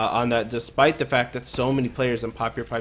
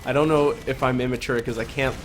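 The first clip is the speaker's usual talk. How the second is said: real giggle creeping into the words; trying to talk through laughter; laughing. Real, not acted. Commentator giggling at a silly player name, laughing. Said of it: "laughing, but".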